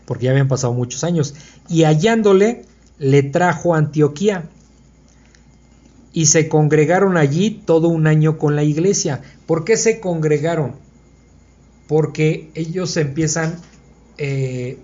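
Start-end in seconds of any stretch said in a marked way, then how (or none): 1.7-9.2 raised, deliberate reading voice; scripture reading. Acted. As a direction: read the verse aloud, louder and measured. Reads the scripture verse aloud.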